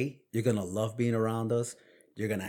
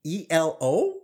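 laughing; 9 semitones higher, 6 dB louder than usual. Retold or imitated. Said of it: "I'm like".

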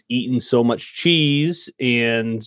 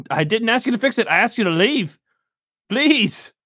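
higher, quicker shopkeeper, amused but firm; shopkeeper NPC; 9 semitones higher than usual. Acted. Shopkeeper ordering the party out, higher and amused. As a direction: shoo them out of the shop with a laugh in it.

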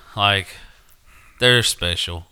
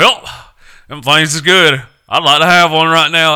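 dopey guy voice; 8 semitones higher, 9 dB louder than usual. Retold or imitated. Voicing dim coworker.

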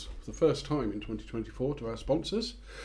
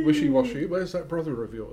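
panto dame voice; 5 semitones higher than usual. Acted. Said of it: "I was Widow Twanky".

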